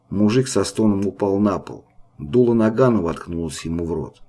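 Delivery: usual speaking voice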